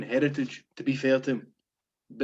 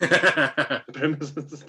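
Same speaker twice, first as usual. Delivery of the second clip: laughing; much slower than usual. Real, not acted. Word repeated for comic effect.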